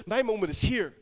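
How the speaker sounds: mild retold shout of excitement; half-shouted, eager quote; excited shout. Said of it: "he got excited and he began to shout".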